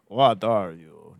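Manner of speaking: put-on a half-hearted Russian accent, dragged out; a failed Russian-accented monster line; bad Russian accent. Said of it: "That's not really Russian".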